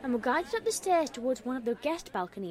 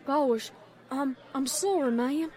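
apologetic; 2 semitones higher, 3 dB louder, slower than usual. Acted. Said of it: "apologized Applejack".

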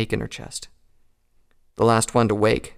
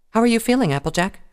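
higher, caring check-in; concerned Twilight; 12 semitones higher, 4 dB louder than usual. Acted. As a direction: ask gently how she is. Twilight voiced.

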